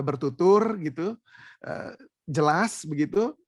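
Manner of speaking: measured, drawn-out words, demonstrating clarity; slow, clear speech. Shown as a demonstration. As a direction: spell it out slowly and clearly. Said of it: "Ngomong dengan pelan".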